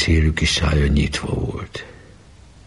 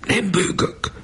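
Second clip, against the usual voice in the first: higher, choked denial of crying; holding back tears; slower than usual. A narrator's reading. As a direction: swallow the tears, insist you're fine. (sírással küszködve)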